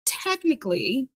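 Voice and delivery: ordinary talk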